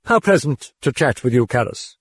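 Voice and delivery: high smug demon voice; grinning demon. A narrator's reading. The demon grinning at Karras. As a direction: gloat with a grin.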